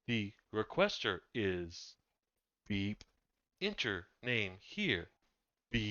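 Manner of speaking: slow stone monotone. Acted. GM voices robot again.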